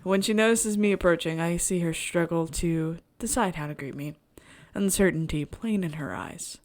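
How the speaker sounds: measured first-person narration; storyteller reading at an even pitch; story narration. A narrator's reading. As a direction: read the inner monologue aloud evenly. Reads the game's story aloud.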